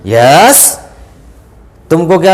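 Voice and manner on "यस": loud blunt yes; mock rude yes; curt yes. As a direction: bark the answer. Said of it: "अपन बोला".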